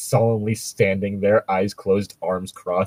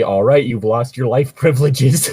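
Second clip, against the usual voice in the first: character's threat; 3 semitones higher, 5 dB louder than usual. Acted. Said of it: "my character's responses".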